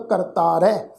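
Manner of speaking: ਕਰਤਾਰੈ ending in an "ai" sound; ਕਰਤਾਰੈ said "kar-taa-rai"; dulawan-like ending. Shown as a demonstration. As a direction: end ਕਰਤਾਰੈ on an open "rai". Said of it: "ਉਲਾਰ ਦੁਲਾਵਾਂ ਵਾਂਗੂ ਪਾਠ ਉਚਾਰਨ ਹੋਏਗਾ".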